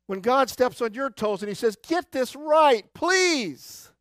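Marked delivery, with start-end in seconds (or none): 1.9-3.9 a lightly voiced, higher pleading God. Pastor voicing God stepping on toes, lightly pleading. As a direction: plead it gently from above.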